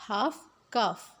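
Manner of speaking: half, calf with no L sound; half, calf, the L left silent. Shown as a demonstration. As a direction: say half, calf, going from vowel straight to F. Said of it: "silent एल".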